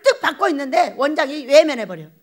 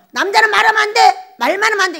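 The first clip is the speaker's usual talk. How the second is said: raised, scolding voice of elders; mock stern scolding, higher and louder; scolding quote; 6 semitones higher, 6 dB louder, faster than usual. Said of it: "이런 말을 들었다 이거예요".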